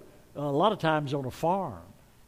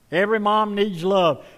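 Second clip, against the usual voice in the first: echoed louder and higher to the crowd; louder repeat; 4 semitones higher, 6 dB louder than usual. Shown as a demonstration. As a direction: say it again, with more force.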